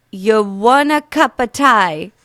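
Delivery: slow British accent attempt. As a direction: ask it like a British local. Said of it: "American girl doing real bad accents".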